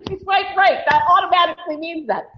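high, quick mimicry of deluded logic; mock excited man. Mocking men who think a match invites pictures, mock excitement. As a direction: imitate an over-eager guy's reasoning.

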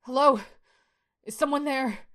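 high-pitched call, loud on the first word; crying out. A narrator's reading. Shane calls to whoever opened the window, crying out. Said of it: "Shane cried out".

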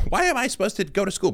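put-on very high child's whine; complaining kid. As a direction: protest like a kid who won't go to school. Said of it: "it's like a parent".

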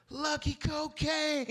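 high, loud, drawn-out call down the street; yelling for dogs. Retold or imitated. Owner calling his dogs down the street, loud drawn-out yell. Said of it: "yelling for him".

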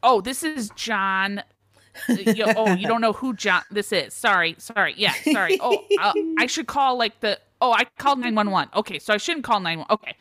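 put-on flustered caller with a Minnesota accent. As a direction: stumble through apologies in Minnesotan, then back out of the call. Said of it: "I have to do a Minnesota accent".

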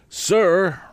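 high, pompous Mr Wopsle voice; fussy pompous man. A narrator's reading. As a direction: raise the pitch, puff it up.

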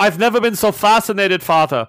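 high, loud, hammed-up childish wonder; mock fascinated kid. Kid gushing to Father over a cup and ball, mock delighted.

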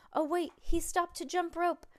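breaking-news excitement from the commentator; excited race commentary. A narrator's reading. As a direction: report a sudden race upset. Surprise twist in race commentary.

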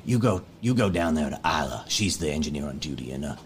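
calm the crowd like a trusted dad figure; calm leader. Acted. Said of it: "he leans in".

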